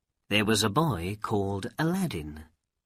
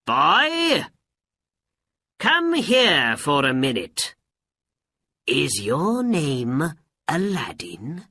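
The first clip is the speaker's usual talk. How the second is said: raised, louder, higher voice; calling out; 6 semitones higher, 5 dB louder than usual. A narrator's reading. Old man summoning Aladdin from his friends, calling out. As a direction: call over to a boy, then question him. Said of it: "Then he called out to Aladdin".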